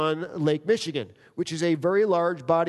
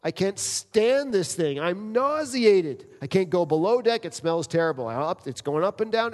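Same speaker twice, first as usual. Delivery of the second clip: 1 seasick Noah pleading; 3 semitones higher than usual. Retold or imitated. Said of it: "he's like".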